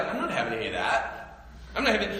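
hushed, dismissive aside; wary animal refusing. Acted. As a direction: mutter it under your breath like an unimpressed bunny. Animals' imagined reply to the coaxing.

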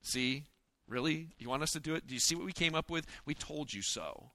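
a hint of smug sulking; sarcastic told-you-so. Disciple sulking at Jesus, mildly sarcastic. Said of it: "I would be going".

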